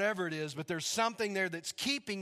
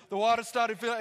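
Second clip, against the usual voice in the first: higher, louder imitated Ugandan accent; 5 semitones higher, 5 dB louder than usual. Rescued man describing rising water, in a Ugandan accent. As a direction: tell it animatedly, Ugandan-accented. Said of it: "that's how they talk".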